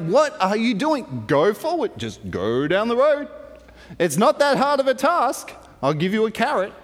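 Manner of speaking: mildly exasperated retold scolding; frustrated. Balaam urging his stopped donkey down the road, mildly frustrated. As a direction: plead with a stubborn animal, mock-exasperated. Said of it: "Balaam gets frustrated again".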